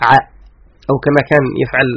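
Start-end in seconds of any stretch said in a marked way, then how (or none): 0.1-0.1 one short syllable for ع; letter's sound only. Shown as a demonstration. Teacher demonstrating the sound of the letter, short bare syllable. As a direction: say ع as its bare sound, not the name عين. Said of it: "في عين ما صوته".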